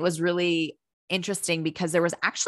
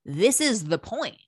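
mock hysterical realization; 4 semitones higher, 4 dB louder, slower than usual. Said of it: "hysterical laughing and being like".

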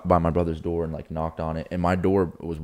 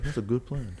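laughing imitation; 6 semitones higher, 7 dB quieter than usual. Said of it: "he's like".

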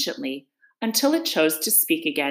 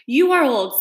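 put-on young son voice; 7 semitones higher, 6 dB louder than usual. The son questions his father.

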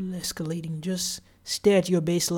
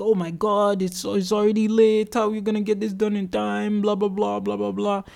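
imitating a panicked colleague, a bit raised; hammed-up fretting, trailing into blah blah; mock freaking out; 3 semitones higher than usual. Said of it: "she's also freaking out again".

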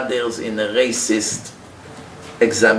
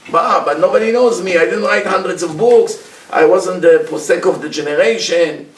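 mock complaint; 3 semitones higher, 3 dB louder than usual. Humble scholar complains nobody knows him.

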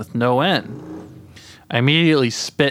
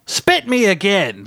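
high, drawn-out demanding bellow; 8 semitones higher than usual. A narrator's reading. Voice in the hole orders the man, bellowing. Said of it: "the voice bellowed out from the hole".

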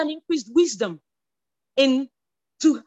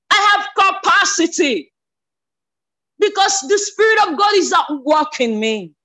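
louder, shouted declaration; mock scream; 2 semitones higher, 5 dB louder than usual. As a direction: shout it like a triumphant breakthrough. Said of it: "you screamed".

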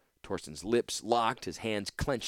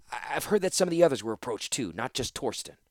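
nervous; 3 semitones higher than usual. Acted. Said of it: "Havero said nervously".

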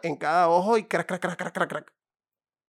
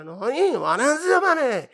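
much higher, louder mock shouting; mock shopkeeper's wife; 9 semitones higher, 7 dB louder, much slower than usual. Wife shouting back at her husband, high mock yelling. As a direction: yell no over and over. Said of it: "Y la tipa".

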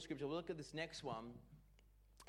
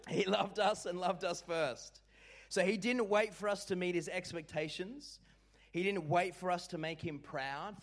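loud, building declaration; preacher's loud fervent push; preaching at full force; 4 dB louder than usual. Real, not acted. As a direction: proclaim it to the room. Preaching at full force after joke.

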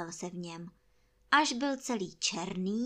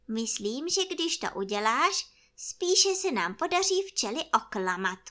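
higher, louder bear voice; plead, then explain the cunning plan, pitched up; scheming toy bear; 6 semitones higher, 6 dB louder than usual. Acted. Bear asks friend to help fool the bees, high earnest voice. Pooh instructs his friend from balloon.

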